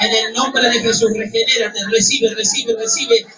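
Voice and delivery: ringing preacher's commands, driven hard; preaching at full force. Acted. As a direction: pour healing over the congregation. Ministra sanidad a la iglesia. (predicación ferviente a viva voz)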